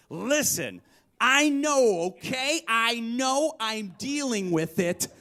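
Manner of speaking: high, loud defensive yelling, slow; hungover yell. Retold or imitated. Hungover Pat yelling at his parents, high loud and slow. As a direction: shout it back like a cornered hungover guy. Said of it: "he yells back".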